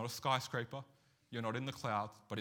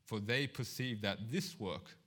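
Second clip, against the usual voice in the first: solemn public reading, slowing toward the end; scripture reading. Acted. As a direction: read the verse with weight. Reads scripture aloud.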